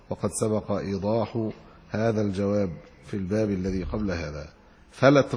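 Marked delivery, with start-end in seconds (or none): 4.9-5.3 "فلت" with a light, undoubled lam; light single L. Shown as a demonstration. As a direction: say "فلت" with one short L, not "فلّت". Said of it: "بتخفيف اللام".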